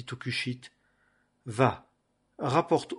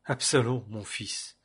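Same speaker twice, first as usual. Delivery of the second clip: grieving lament; slower than usual. Acted. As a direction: mourn his son, fading to almost nothing. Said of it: "Et le roi fut très ému".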